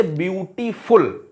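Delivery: "ब्यूटीफुल" split as ब्यू-टी-फुल; broken into syllables. Shown as a demonstration. Teacher showing how words break, "ब्यूटीफुल" syllable by syllable. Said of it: "जिनको तोड़कर".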